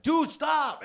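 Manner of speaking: hammed-up shout to calm the boyfriend; mock shout. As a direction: yell him down fast. Talking the boyfriend down.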